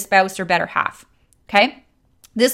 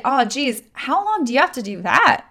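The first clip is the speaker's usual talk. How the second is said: disgusted, sorry tone; 4 semitones higher than usual. Shown as a demonstration. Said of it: "have a disgusted, kinda, like, feel sorry kind of connotation tone".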